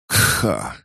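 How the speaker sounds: a rough cough after a fall. A narrator's reading. Hero collapsing back after the flash, coughing. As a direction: hack out a short cough. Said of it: "я упал и закашлялся".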